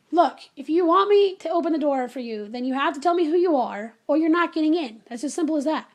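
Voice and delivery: retold stern demand; firm ultimatum. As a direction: lay down the law to an unknown visitor. Firm ultimatum through closed door.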